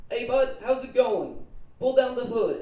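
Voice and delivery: loud, high-pitched booming greeting; hearty shop owner. Acted. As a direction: play a salon owner hailing a customer loudly.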